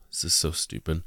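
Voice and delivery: a soft, sighing scoff; quiet aside. Real, not acted. Host fed up with the phrases, soft sighing scoff. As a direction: sigh it out in disbelief. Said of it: "host scoffing at the list".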